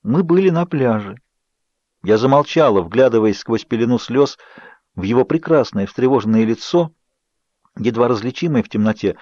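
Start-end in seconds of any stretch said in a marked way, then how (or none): none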